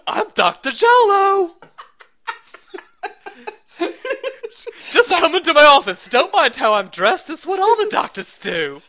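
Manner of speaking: mock gruff Doctor House voice, laughing; hammed-up cranky doctor, half laughing; House impression. Friends riffing as Doctor House, mock gruff. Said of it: "whenever I do that voice".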